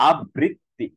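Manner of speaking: আবৃত্তি split as "ab-brit-ti"; imitated mispronunciation. Teacher repeats how people say it, wrong pronunciation. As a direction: punch a doubled b in আবৃত্তি. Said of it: "কিভাবে বলে?".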